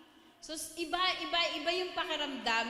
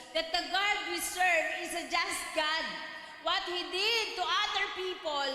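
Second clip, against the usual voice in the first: fervent preaching; 3 semitones higher than usual. Acted. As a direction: preach it with rising conviction, reading scripture aloud. Preaching the testimony's lesson.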